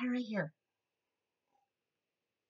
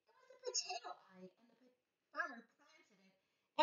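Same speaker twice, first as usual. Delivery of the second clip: story whisper; 3 semitones higher, 17 dB quieter than usual. A narrator's reading. Hushed storytelling moment.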